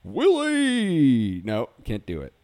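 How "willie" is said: high loud squawk of the name; Alf voice attempt. Second try at Alf's voice for the hosts. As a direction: try again at Alf shouting for Willie. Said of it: "we're going in the wrong direction with it".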